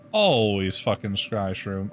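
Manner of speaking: slow, fed-up drag on scry shroom; exasperated. Acted. A harbor master sick of hauling mushrooms, slow and exasperated. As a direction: drag out "Always fucking scry shroom" in disgust.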